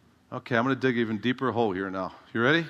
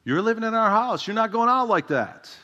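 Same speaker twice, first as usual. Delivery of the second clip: stern mother; 9 semitones higher, 4 dB louder than usual. Retold or imitated. Mother laying down the law.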